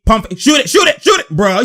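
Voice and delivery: rising, urgent shouts of shoot it; yelling shoot it. Real, not acted. Watching the replay, urging Reggie to take the shot, excited shouting. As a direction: yell at the screen for him to shoot.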